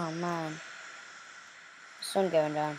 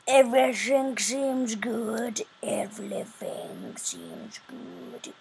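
slow, tense whisper; 4 semitones higher, much slower than usual. Acted. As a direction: whisper it slowly, creeping forward. Sneaking through a trapped building.

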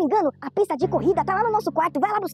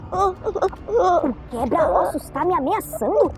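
crying; much slower than usual. Acted. Threatened kid cries out.

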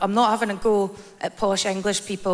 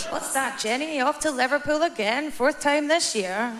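nosy neighbour; 6 semitones higher than usual. Pretend. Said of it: "mock neighbour asking about trips".

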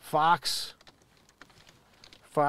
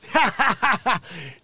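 wheezing laugh; 5 semitones higher than usual. Real, not acted. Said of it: "stop wheezing".

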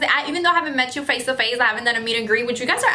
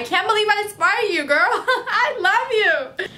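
laughing in disbelief; 8 semitones higher than usual. Real, not acted. Fan says she's inspiring.

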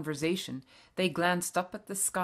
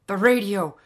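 loud, higher, urgent exclamation; urgent gasp; 4 semitones higher, 13 dB louder than usual. A narrator's reading. Father rushing to the radio, urgent loud gasp. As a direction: burst out with sudden urgency. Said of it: "gasped Father".

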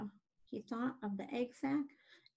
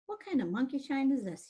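higher, mildly indignant grumble; disgusted; 5 semitones higher, 4 dB louder than usual. Acted. Rat tossed awake from sound sleep, disgusted. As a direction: object to being rudely disturbed. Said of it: "dazed and then disgusted".

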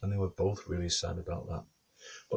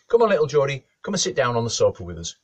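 loud, raised-pitch, playful invitation; delighted coaxing; 6 semitones higher, 10 dB louder, faster than usual. Acted. Wife invites the new toy to sit, delighted coaxing. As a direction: coax it along like a little one.

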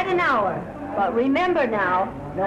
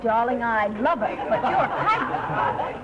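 laughing; 3 semitones lower, slower than usual. Acted. Teasing drunk suitor.

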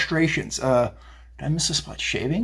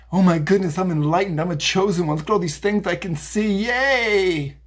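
higher, giddy mock gushing; mocking the newly enlightened; 4 semitones higher than usual. Mocking a newly awakened follower, giddy and self-delighted. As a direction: ham up a smug convert's delight. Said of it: "And then they".

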